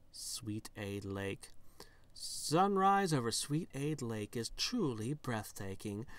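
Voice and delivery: animated game-text narration with punched words; story narration. Acted. Narrating a sugary lake scene to the player, storytelling voice. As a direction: read it like a lively storybook narrator.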